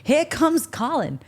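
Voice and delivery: a hint of a cocky lad shouting, slowed; half-hearted imitation of a cheeky lad yelling; mock shout. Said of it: "he shouts to his best friend".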